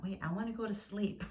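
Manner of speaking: lightly mimicked grumble of protest; irritated protest. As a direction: recall a sleepy, mildly put-out objection. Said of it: "I found it irritating".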